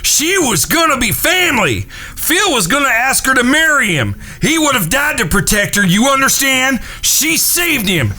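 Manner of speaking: shouting. Acted. Frank yells at Henry.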